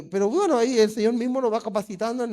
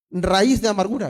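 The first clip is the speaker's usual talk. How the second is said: re-enacted rebuke, moderately raised; retold shout; 4 dB louder than usual. Preacher re-enacting his rebuke to a bitter spirit, mildly shouted. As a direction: call out a retold command. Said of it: "y le grito".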